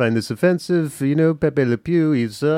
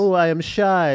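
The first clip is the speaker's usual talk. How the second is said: mock shy woman; 4 semitones higher than usual. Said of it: "the women, they pretend".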